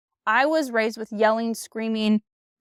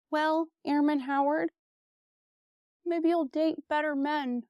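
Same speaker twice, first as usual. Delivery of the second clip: mocking the sergeant; 4 semitones higher, 4 dB quieter than usual. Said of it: "you know what he said?".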